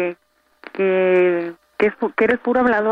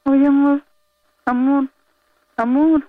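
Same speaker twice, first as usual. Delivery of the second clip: calling out; 4 semitones higher than usual. Real, not acted. Calling him back on the line.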